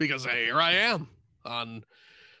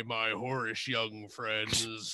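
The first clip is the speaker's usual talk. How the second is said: sly leering; 4 semitones lower, 5 dB quieter, slower than usual. Acted. Devil leers at hosts.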